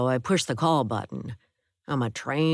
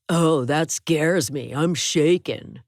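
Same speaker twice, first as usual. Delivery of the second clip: sarcastic; 5 dB louder, slower than usual. Acted. Roommate mocks woman's threat.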